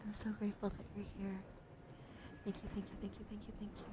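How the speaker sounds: soft, murmured gratitude; grateful. Real, not acted. Streamer thanking new followers for being here, softly grateful. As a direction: thank them quietly, repeating it tenderly.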